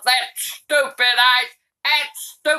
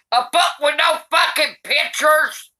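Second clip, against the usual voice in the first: outraged shout; 3 semitones higher than usual. Real, not acted. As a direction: bellow it in disgust. Granny outraged at the book.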